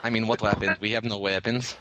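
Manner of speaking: low mock-Russian voice; deadpan put-on Russian accent; bad Russian accent. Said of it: "bad Russian on you".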